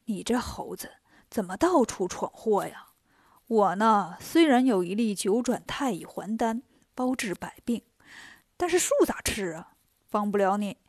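put-on old immortal. Donghua Emperor gently refuses Monkey.

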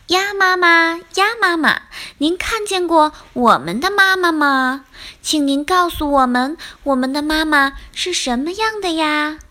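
lightly acted children asking for help; eager little tadpoles. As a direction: politely plead as little tadpoles. Tadpoles question mother duck.

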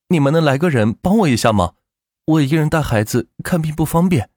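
lightly voiced woman asking a favour; pleading young mother. Mother asking the men to help at the hospital, mild plea. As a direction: politely appeal for a hand.

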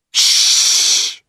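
unvoiced shush; whispered shush. A narrator's reading. Tom hushing Huck in the graveyard, unvoiced shush. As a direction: hush him sharply. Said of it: "whispered Tom".

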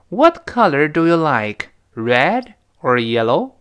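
RED and YELLOW each lifted in a slow, open-ended question; rising choice question. Shown as a demonstration. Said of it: "就生掉了".

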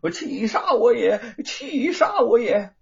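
high, strained wail of rage; furious cry. A narrator's reading. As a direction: cry out, choking on anger. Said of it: "只叫道".

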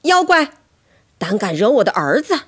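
loud, high opening shout; fierce protective bellow; mother's roar. A narrator's reading. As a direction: roar at the monster. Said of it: "妈妈大声大吼一声".

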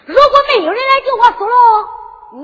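high, loud, rapid challenge; urgent dare. Acted. Captive dares Su Long to wait, urgent shout. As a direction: rush it out at full voice.

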